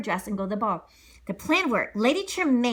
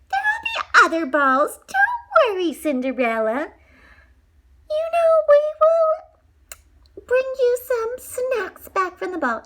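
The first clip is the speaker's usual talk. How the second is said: loud taunting stepsister; 7 dB louder, slower than usual. Acted.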